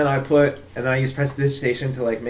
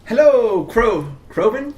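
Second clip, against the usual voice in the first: high, sing-out hello into a shop; calling out; 10 semitones higher, 6 dB louder, slower than usual. Acted. Visitor looking for Kroven in the apothecary, calling out. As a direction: call for someone you can't see, questioning.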